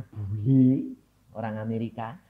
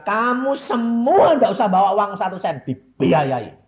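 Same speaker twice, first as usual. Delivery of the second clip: pastor's offer; 5 semitones higher, 9 dB louder than usual. Retold or imitated. Pastor's exciting offer retold.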